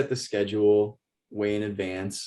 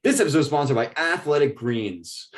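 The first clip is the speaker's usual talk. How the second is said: higher-pitched imitation of a podcast host's ad read; Joe Rogan; 4 semitones higher than usual. Quoting a podcast's halfway sponsor break, mock host voice. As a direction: lightly imitate a podcaster announcing his sponsor. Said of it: "It's Joe Rogan's voice".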